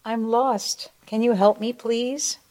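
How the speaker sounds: small, high, soft plea; tiny lost creature, high and soft; whisper-soft voice. A narrator's reading. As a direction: plead softly in a high little bunny voice. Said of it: "heard a whisper soft voice".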